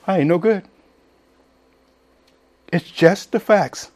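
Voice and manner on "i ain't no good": lightly voiced Oklahoma country talk; Oklahoma accent. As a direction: say it plain the way Oklahomans do. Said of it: "that's how they say it in Oklahoma".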